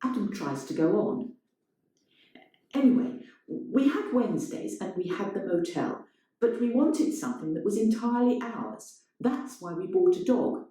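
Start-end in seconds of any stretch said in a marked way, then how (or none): 2.7-10.7 raised, earnest confession; lightly voiced man pressing on; Adam's voice, higher. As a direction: push on with the story, a little higher. Adam continues monologue.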